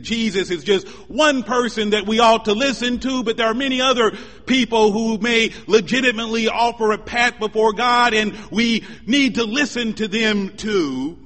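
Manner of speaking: emphatic preaching. Real, not acted. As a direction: push the argument out to the congregation. Preacher voices others' view emphatically.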